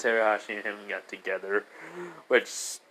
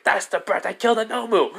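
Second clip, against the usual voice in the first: gleeful villain; 9 semitones higher than usual. Retold or imitated. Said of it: "and Shigaraki said".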